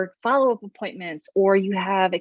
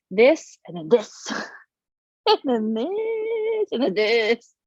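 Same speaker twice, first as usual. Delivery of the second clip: dramatic slow ups and downs; 2 semitones higher, much slower than usual. Acted.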